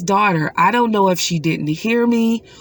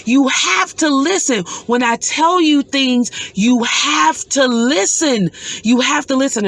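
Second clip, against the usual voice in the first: higher, pleading through tears; crying plea; 6 semitones higher than usual. Retold or imitated. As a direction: beg her daughter to listen. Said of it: "I started crying profusely".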